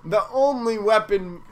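village elder voice. Acted. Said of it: "my voice changed again".

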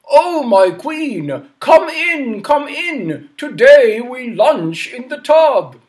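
high, slow royal welcome; jolly king. Acted. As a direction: grandly invite the queen.

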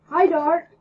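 loud, high call; loud cheerful call; yelled greeting. Acted. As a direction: shout hello across the room. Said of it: "he yelled".

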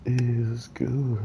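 hoarse, strained voice that hurts; talking through pain, quietly; with a sore jaw. Real, not acted. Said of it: "it really hurts to talk right now".

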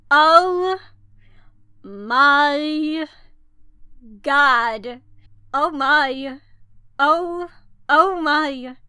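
loud, stretched-out oh my god; real thrill at the new cards; excited gasp. Real, not acted. Seeing the rest of the set.

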